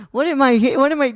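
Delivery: high, loud puzzled question; a hammed-up baffled voice; imitating a baffled coach; mock confused.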